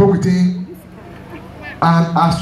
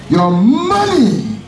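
slow, drawn-out preacher's cry on "Your money"; preaching climax; much slower than usual. Acted.

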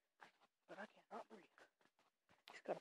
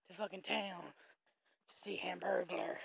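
slow conspiratorial whisper; 2 semitones lower, 5 dB quieter, slower than usual. Real, not acted. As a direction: lean in and whisper it. Aside to viewers.

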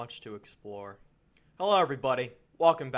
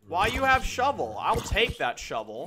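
much higher, loud startled questioning; alarmed; 8 semitones higher, 7 dB louder than usual. Real, not acted. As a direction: caught off guard by an armed mob. Repeats challenge to the mob.

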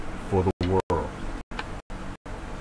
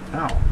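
pained ow. Real, not acted. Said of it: "I bit my cheek".

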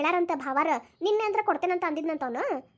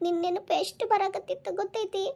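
slow, weepy confession of missing mother; acted tearful voice; tearful longing; 3 semitones higher than usual. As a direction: draw it out as if crying. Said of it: "ಅಳಕ್ ಹೋಗ್ಬೇಡ ಏನೋ".

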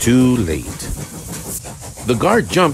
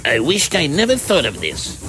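high, strained miserable moan; groaning regret; 9 semitones higher than usual. A narrator's reading. Squeezed van regretting its trick, groaning. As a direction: lament as if being squashed. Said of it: "groaned the van".

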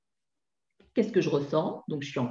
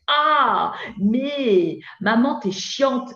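put-on drawn-out, higher teen complaint; whiny teenager; 4 semitones higher, 4 dB louder, much slower than usual. Teenager talking back to his mother, slow and whiny. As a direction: stretch out "maman" like an exasperated ado. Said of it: "quand mon ado me dit".

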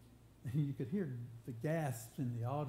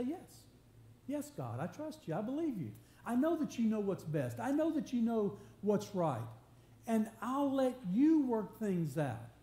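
earnest declaration of faith, building higher and louder; earnest trusting prayer; 5 semitones higher, 3 dB louder than usual. Acted. Voicing a trusting prayer of surrender.

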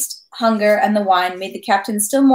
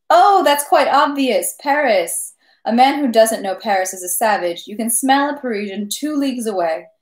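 proud of Paris; 2 semitones higher than usual. Acted. Captain boasting of Paris to Pierre, proudly excited. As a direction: sing Paris's praises.

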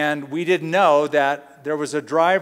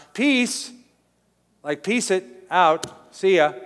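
dismissive; 3 semitones higher, slower than usual. Pretend. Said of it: "they roll their eyes like".

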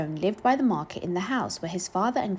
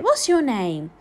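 loud, raised-pitch demand; insistent, raised voice; loud questioning; 4 semitones higher, 6 dB louder, slower than usual. A narrator's reading. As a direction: question the child forcefully as an old woman. Joan questions the strange boy.

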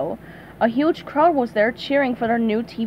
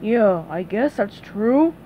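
muffled; 2 semitones lower, slower than usual. Acted. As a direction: talk while squeezed round the head. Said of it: "he said in a muffled voice".

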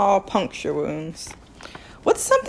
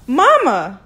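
a mild loud cry for mother; shriek; 5 semitones higher, 5 dB louder than usual. Acted. Boy finds his mother on the ground, shrieking. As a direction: cry out as you spot her. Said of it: "he shrieked".

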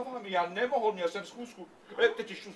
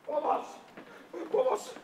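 cry for help; 10 semitones higher than usual. Acted. Crying for help.

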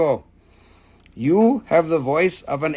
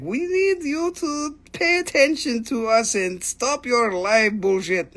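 higher mock dog voice, then slowing; voicing the dogs; 4 semitones higher than usual. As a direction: speak for the whiny dogs, a bit higher. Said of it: "they are like".

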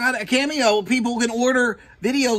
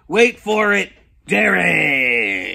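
drawn-out catchphrase with a falling last word; showman catchphrase; 4 semitones lower, 4 dB louder, much slower than usual. Pretend. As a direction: stretch it out like a wrestling announcer.

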